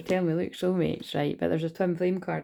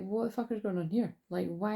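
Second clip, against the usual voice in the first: higher, softly puzzled questioning; confused; 3 semitones higher, 4 dB quieter than usual. Retold or imitated. Tarot reader voicing their own bewilderment at the situation, confused. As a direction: retell it as mild bewilderment, pitch lifted. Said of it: "I was just confused".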